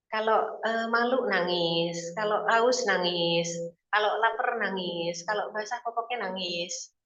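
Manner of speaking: each phrase drawn out slowly; slow listing. Acted. Preacher listing why babies cry, slowly. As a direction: spell it out slowly, one by one.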